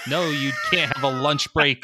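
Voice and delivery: high squeaky Minion shout. Pretend. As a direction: yell like a bossy little Minion. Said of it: "that Minion impression so good".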